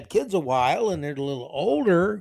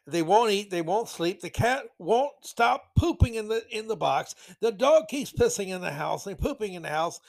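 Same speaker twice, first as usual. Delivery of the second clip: whiny parent; 3 semitones higher than usual. Retold or imitated. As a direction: whine like a helpless parent. Mocking lazy parents' complaints.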